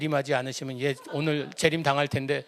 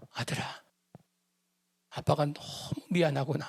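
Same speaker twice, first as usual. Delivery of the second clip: softer, gentle call to the son; tender; 5 dB quieter than usual. Retold or imitated. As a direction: hold him close and say it softly. Father hugs scared son.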